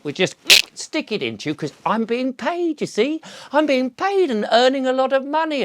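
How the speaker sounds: a hint of a cheerful greedy NHS doctor; mock sugary doctor. Doctors welcoming patients to injections, mock sugary sweetness. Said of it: "there they were going".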